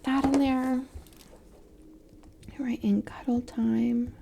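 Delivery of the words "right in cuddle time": whisper. Real, not acted. Whispered aside while placing sticker.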